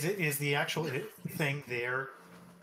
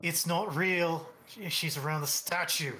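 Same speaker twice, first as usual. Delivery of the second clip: character voice; 3 semitones higher than usual. Pretend. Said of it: "Gideon can say".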